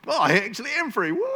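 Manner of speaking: high, loud joyful cry of freedom; excited Peter. Retold or imitated. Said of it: "he was like".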